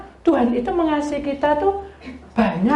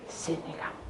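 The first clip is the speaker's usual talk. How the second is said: hushed call; 7 semitones lower, 18 dB quieter than usual. Retold or imitated. Doctor calls her over quietly.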